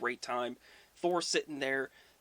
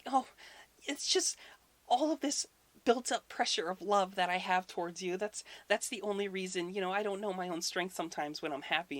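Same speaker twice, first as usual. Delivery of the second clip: high put-on bride voice; fake voice; 5 semitones higher than usual. Thor as Freya explains the strong grip, high fake voice. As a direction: gush excuses in a false high voice. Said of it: "imagine him doing a fake voice".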